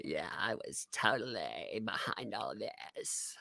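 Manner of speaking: hushed whisper. Retold or imitated. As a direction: whisper the confession. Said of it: "they're gonna say".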